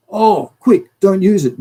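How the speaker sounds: high, loud mock alarm; mocking panicky official. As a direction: squeal it like a panicked bureaucrat. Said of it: "the press release".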